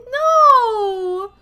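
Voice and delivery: high loud no; shocked loud no; loud protest. Real, not acted. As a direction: cry out in protest. Protesting ugly cats.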